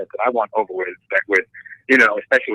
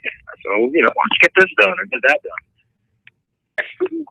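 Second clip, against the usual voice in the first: slow, lazy put-on husband voice; offhand husband asking for work; mocking husband; 8 semitones higher, slower than usual. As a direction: drag it out like a bossy husband. Husband voiced in tattoo story.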